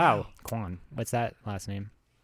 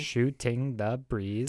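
syllable by syllable; 3 dB quieter, much slower than usual. Shown as a demonstration. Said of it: "I miss when the lines started".

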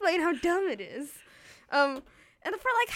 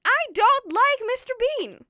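emphatic confession; 8 semitones higher, 6 dB louder than usual. Real, not acted. Emphatic confession of unpopular opinion.

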